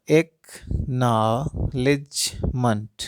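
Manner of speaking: एक्नॉलेजमेंट drawn out slowly, split into its syllables like claps. Shown as a demonstration. Teacher shows parents how to clap out syllables, slow and broken. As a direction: stretch एक्नॉलेजमेंट out, one clap per syllable. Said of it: "कितने बार ताली बज रहा है".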